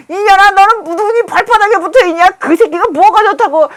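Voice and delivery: high-pitched mock scolding from mom; scolding mother. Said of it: "우리 엄마가 그랬는데". (높은 톤으로 딸을 혼내는 엄마 흉내)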